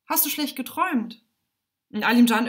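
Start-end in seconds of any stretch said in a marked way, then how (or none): 0.0-1.2 higher-pitched concerned mother; mother gently questioning, pitched up; mother's voice. A narrator's reading. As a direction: rouse a child from a bad dream in a high voice. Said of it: "die Stimme der Mutter".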